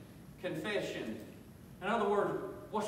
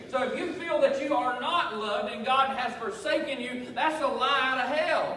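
raised, emphatic preacher's voice; forceful preaching; 4 semitones higher, 4 dB louder than usual. Real, not acted. Preacher refuting lies to the congregation, forceful preaching. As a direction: drive it home to the congregation.

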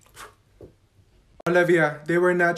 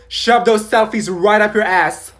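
angry; 7 dB louder than usual. Acted. Angry retort to friend.

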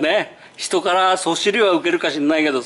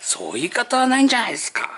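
firm protest; 4 semitones higher, faster than usual. Retold or imitated. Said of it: "retold protest to supplier".

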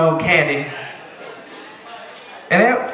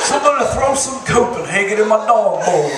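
Georgia dog voice. Acted. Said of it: "dog from Georgia".

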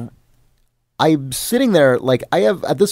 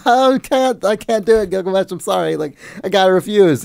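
anguished apology; 6 semitones higher than usual. Retold or imitated. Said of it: "And I'm like".

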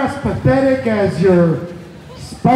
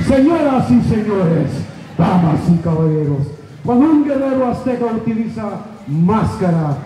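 lucha libre announcer. Acted. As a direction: hype the crowd like a ring MC. Introduces wrestler in the ring.

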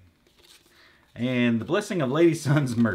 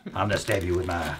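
mock gamer nerd; 3 semitones lower than usual. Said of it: "fat white guys sitting around the game store".

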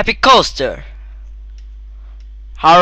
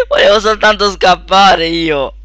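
laugh-cry; 4 semitones higher, 3 dB louder than usual. Real, not acted. Escape fails, laughing.

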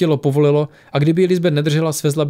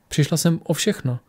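loving; 3 semitones higher than usual. Acted. Alex looking lovingly at Adrian, tender. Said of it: "zadívala se na něj láskyplně".

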